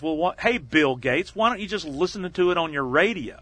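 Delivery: lightly imitated sarcastic comeback; David Letterman. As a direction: needle the guest with mock-innocent sarcasm. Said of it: "His sarcastic response is".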